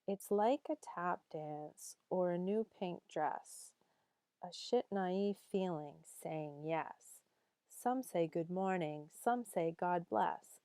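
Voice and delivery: rhythmic recital with lilting emphasis; lively poem reading. Acted. Teacher reading a fun poem to students, lilting recital. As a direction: read the verse playfully, line by line, building toward the end.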